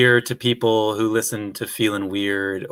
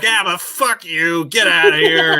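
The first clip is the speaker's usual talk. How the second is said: cheeky brush-off; 5 semitones higher, 3 dB louder than usual. Retold or imitated. Podcast host to listeners, a cheeky higher-pitched mock send-off. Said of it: "I just wanna be like".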